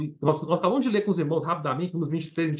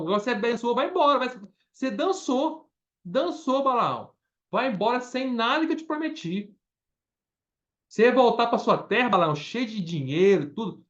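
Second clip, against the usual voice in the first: scornful king. Retold or imitated. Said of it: "Ficou bravo, falou assim".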